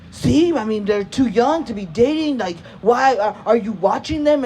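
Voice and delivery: mildly heated scolding, imitating an angry dad; going in. Dad berating mom over daughters dating, going in. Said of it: "going in on my mom".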